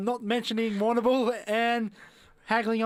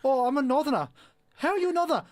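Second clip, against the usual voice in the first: higher-pitched mock Northern English voice; Northern English accent; 5 semitones higher than usual. Fan questioning a Northerner in space, mock Northern English accent. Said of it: "was actually Northern English".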